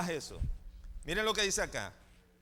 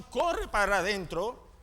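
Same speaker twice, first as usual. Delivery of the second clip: ordinary talk, nothing marked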